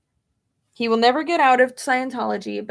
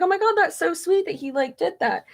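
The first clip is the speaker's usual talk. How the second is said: gushing; 8 semitones higher than usual. Retold or imitated. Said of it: "I was like".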